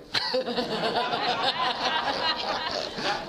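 a real amused laugh at his own joke. Real, not acted.

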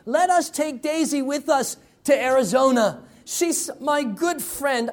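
put-on high, drawn-out pleas of a desperate child; begging prayer. Little boy praying to keep his dog, begging and pleading. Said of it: "he begged and he pleaded with the Lord".

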